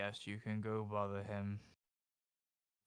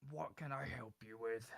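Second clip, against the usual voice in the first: mortician voice; 9 dB quieter than usual. Acted. Mortician's first line.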